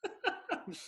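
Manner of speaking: high, airless burst of laughter; breathy laugh. Real, not acted. Auctioneer laughing at the idea of timing it. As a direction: laugh off the question.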